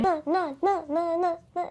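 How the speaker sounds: lightly voiced robot singsong. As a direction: chant it like a robot. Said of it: "into, like, a robotic voice".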